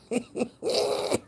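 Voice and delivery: a burst of high laughter. Real, not acted. Laughing at the chat over her bonnet.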